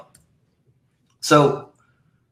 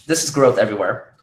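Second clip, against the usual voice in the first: hoarse voice. Real, not acted. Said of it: "Wow, I'm really losing my voice".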